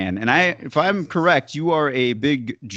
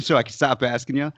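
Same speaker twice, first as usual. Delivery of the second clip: ordinary talk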